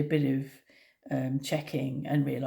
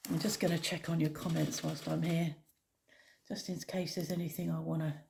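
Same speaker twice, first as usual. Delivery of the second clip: nodding off; 6 dB quieter than usual. Real, not acted. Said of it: "I keep drifting off".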